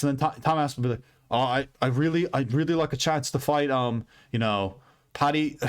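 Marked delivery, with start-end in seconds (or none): 1.3-5.6 badly faked British accent; shitty British accent. Fighter naming his next opponent, in a bad British accent. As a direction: try a half-hearted British accent. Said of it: "that was a shitty British accent".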